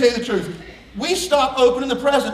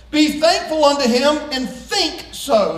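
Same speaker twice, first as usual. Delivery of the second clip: mock misquote; 3 semitones higher, slower than usual. Shown as a demonstration. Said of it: "Is that what it says?".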